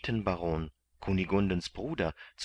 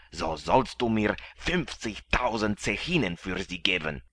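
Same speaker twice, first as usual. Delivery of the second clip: gruff galley master. A narrator's reading. Galley master demands ransom.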